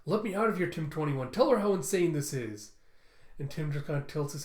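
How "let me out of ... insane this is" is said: raised, pleading half-shout. Acted. Quan to Tim through the cell bars, acted shout. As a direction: call out urgently, voice pitched up. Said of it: "shouting through the cell bars as he goes".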